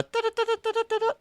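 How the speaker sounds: rapid "da-da" news sting; staccato vocal sound effect; imitated news jingle. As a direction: rattle off a mouth-made bulletin jingle.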